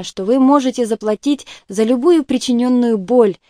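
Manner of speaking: plain reading voice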